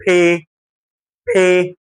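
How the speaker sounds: "بي" as pé with a puff of air; P letting air out. Shown as a demonstration. Teacher drilling the air-releasing letter, puffed pé. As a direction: burst the lips open on a breathy P in "بي". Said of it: "مطلعه هوا".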